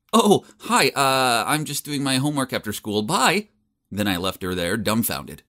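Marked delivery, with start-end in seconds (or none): 0.1-3.5 awkward. Acted. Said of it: "I awkwardly replied".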